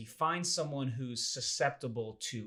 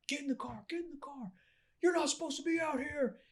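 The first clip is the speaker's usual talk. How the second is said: mock kidnapper. Actors acting as kidnappers.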